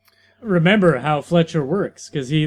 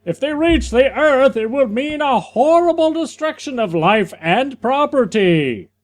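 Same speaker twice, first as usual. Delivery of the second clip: lightly voiced comic hero, a bit higher; hero character voice; 6 semitones higher than usual. Redoing the line as the hero, lightly raised and proud. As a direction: read it like the square-jawed hero. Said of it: "I'm the other character".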